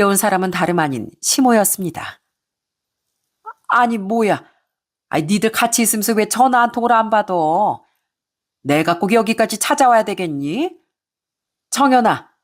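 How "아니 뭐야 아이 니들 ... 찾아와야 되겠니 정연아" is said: barge in and scold, mildly voiced; scolding mother-in-law. Mother-in-law barging in, scolding her daughter-in-law.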